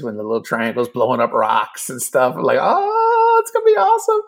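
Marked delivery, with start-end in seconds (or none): 2.6-4.2 a much higher, thrilled nerd voice; nerdy excitement. Retold or imitated. The nerd in him pictures Asteroids lasers, excitedly. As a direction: gush like a kid picturing laser battles. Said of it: "the nerd in me is like".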